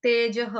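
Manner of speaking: तेजः ending in a breathy h sound; तेजः, visarga as h. Shown as a demonstration. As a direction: say तेजः as tejah. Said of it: "विसर्ग का उच्चारण मैंने ह के साथ किया".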